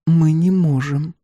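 slow, high-pitched refusal; anxious young woman. A narrator's reading.

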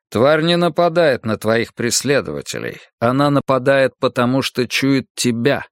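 настойчиво, веско, чуть выше; торопит, перечисляя жертвы; голос монаха. Acted. Монах торопит героя уйти. (настойчивый голос монаха)

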